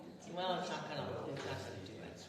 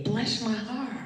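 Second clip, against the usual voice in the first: gentle affirmation; 3 semitones higher than usual. Shown as a demonstration. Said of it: "And just say, with me".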